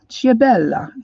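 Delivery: Ciabella again with a slightly fuller Italian accent. Shown as a demonstration. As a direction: lean a bit harder into the Italian Ciabella. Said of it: "get my Italian accent going here".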